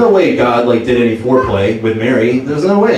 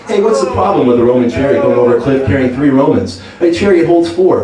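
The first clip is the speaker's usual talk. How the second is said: stand-up comic Jesus. Retold or imitated. Jesus on the cross opening his comedy set. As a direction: work the room like a cheesy headliner. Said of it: "ultimate stand-up comedian".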